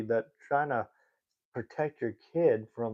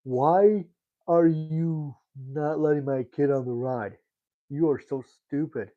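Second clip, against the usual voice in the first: mock angry mother; 3 semitones higher, 4 dB louder than usual. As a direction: play the pushy parent yelling at staff. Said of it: "some lady came up to the person and said".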